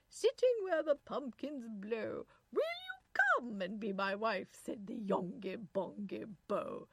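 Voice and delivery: loud, slow English verse recital; English nurse accent. A narrator's reading. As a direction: recite theatrically in English tones. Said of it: "the pure accents of the Sweeney's nurse".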